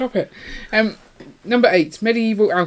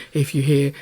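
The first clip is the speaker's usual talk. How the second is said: exaggerated imitation of a co-host addressing listeners; mocking funny voice; 6 dB louder than usual. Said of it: "That's how you sound".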